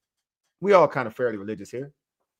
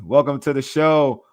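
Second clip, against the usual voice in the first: louder welcome at the usual pitch; hyped welcome; 5 dB louder than usual. Acted. Hyping the team's coming run, a spirited first welcome. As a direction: announce the show with some punch.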